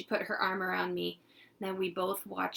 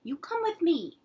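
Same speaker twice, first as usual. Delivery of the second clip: higher, louder scolding mom; firm mom taking the child away; stern mother; 10 semitones higher, 5 dB louder than usual. Acted. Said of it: "my mother told her".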